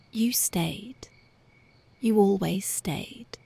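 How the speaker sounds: slow tender whisper; grateful lover's slow whisper. Acted. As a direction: let each word linger in a whisper. Intimate lover whispering to listener.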